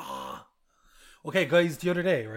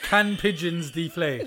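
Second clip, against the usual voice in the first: slow, deliberate query read; slow typed-out search voice; slower than usual. Shown as a demonstration. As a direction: spell out the search slowly. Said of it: "So I have to search".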